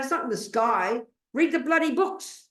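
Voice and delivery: high, emphatic mock exasperation; exasperated teacher's punchline; exasperated exhortation. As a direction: push it out high as an obvious answer. Exasperated answer to imagined student.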